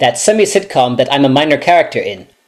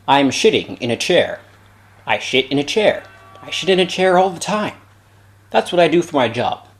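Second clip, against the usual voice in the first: Sean Connery impression. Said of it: "one of my famous impressions, this time of Sean Connery".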